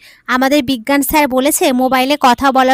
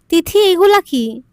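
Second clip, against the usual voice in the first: startled; 5 semitones higher, 4 dB louder than usual. Retold or imitated. Husband startled by kisses.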